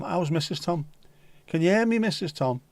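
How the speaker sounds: playful hail to a listener; calling out. Pretend. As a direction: shout across as if she's far away. Calling out to Missus Tom.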